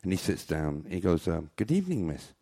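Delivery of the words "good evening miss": sweet-talking greeting. Acted. Man greets girl in joke.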